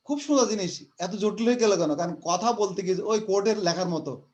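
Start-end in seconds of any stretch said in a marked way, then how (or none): 0.0-1.9 surprised. Retold or imitated. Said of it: "তুমি বলবো যে".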